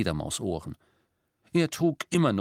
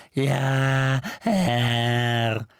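louder, croaking house-elf voice; 3 semitones higher, 4 dB louder than usual. A narrator's reading. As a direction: answer with sullen servility. House-elf Creature answering.

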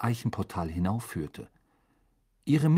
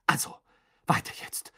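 sharp. Acted. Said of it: "mit einer gewissen Schärfe in der Stimme".

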